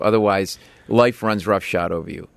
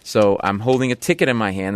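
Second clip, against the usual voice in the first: ordinary talk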